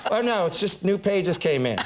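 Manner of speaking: put-on casual explanation; pretend innocence. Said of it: "pretend like I was running lines".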